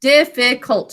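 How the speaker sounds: "Difficult" in three separate beats, dif-fi-cult; syllable by syllable. Shown as a demonstration. Teacher modelling fingers under chin, "Difficult" in separate syllables. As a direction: give each syllable of "Difficult" its full sound. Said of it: "Fingers under your chin to say it".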